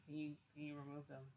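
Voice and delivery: very soft, low, polite asking; nice request. Retold or imitated. Captive asking captor to remove cuffs, nice request. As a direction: ask nicely, almost under your breath. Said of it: "really nicely to you".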